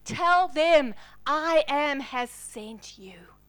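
slow whisper from the burning bush; hushed divine voice. Acted. God telling Moses his name, slow whisper. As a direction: breathe it out like a sacred secret.

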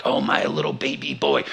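lightly voiced cooing mother; cuddly mom. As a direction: coo like a mom over her baby. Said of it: "mom mode, cuddle mode".

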